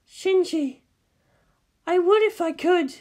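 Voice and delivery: high, soft, pained woman's voice. Acted. Misato pleading gently with Shinji, soft and pained. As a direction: let the pain show, gently. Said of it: "she said softly, pained".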